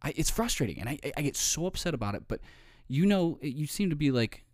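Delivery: a hint of a flattering coworker. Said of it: "And she's like".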